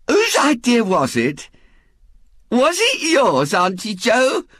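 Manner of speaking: high, wondering woman's voice; Missus Bott, puzzled. A narrator's reading. Missus Bott asks who had the idea, eagerly puzzled.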